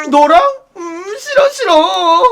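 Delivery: whiny disgust. Acted. Disgusted refusal.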